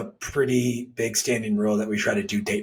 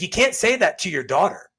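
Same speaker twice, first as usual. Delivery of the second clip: higher, louder indignant rebuke; retold scolding; 8 semitones higher, 5 dB louder than usual. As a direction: defend his wife, firm and heated. Confronting mother-in-law at dinner.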